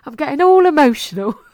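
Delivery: a choked-up laugh through the words; laughing emotional. Real, not acted. Podcast host laughing at her own tearing up to listeners.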